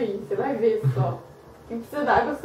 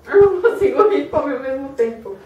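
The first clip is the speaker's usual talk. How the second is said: mouth full; 2 semitones higher, 5 dB louder than usual. Real, not acted. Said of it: "Falar de boca cheia".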